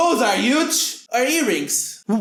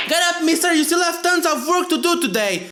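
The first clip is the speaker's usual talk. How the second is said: scolding mom; 6 semitones higher than usual. Acted.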